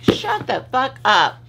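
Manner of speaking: high, slow snotty viewer voice; mock annoyed viewer. Voicing a viewer sick of her whining, high and sneering. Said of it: "and you're like".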